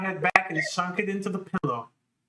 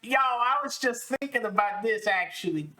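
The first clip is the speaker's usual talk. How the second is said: imitating mid-narration aside; 7 semitones higher than usual. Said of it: "mid narration go like".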